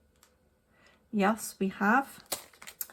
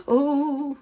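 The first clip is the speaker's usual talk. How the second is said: startled oh; 7 semitones higher, 8 dB louder than usual. Real, not acted. Nearly spilling the beads.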